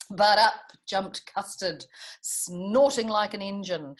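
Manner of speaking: lively storybook rhyme reading; reading to children. A narrator's reading. Teacher reads Custard the Dragon to the class, lively storybook voice. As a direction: bounce the rhymes for little listeners.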